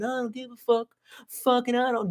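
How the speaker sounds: mock Chinese leader voice. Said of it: "Winnie the Flu is going".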